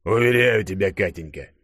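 calm her with a settling cadence; mild paternal reassurance; reassuring. A narrator's reading. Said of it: "успокаивающе произнёс шеф".

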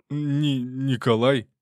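high, slow stammered name; stammering detainee. Acted. Detainee gives his name to soldiers, high stammering. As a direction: stumble over the name in fear.

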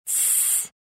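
breathy hush; shushing. A narrator's reading. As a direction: hush her sharply. Hushing the girl. (шиканье)

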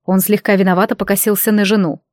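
ordinary delivery

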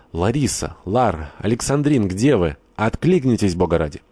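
frantic calls for the women; shout. Acted. Glafira bursts in calling for Larisa, a frantic shout. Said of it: "закричал".

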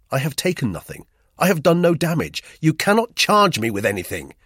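rising desperate protest. A narrator's reading. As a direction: let the voice climb in panic. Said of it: "My voice rose".

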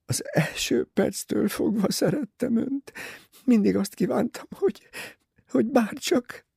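high, broken whisper through tears; a girl crying with happiness to her future mother-in-law; sobbing. A narrator's reading. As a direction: choke out the words as she weeps. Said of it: "megtört hangon zokogta".

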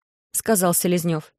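ordinary delivery, nothing marked

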